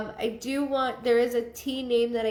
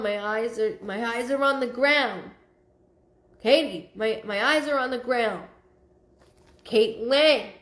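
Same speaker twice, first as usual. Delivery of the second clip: mildly raised voice of a scolding mom; mock yelling. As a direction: relay a mother's yell, half amused. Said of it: "She keeps yelling at me".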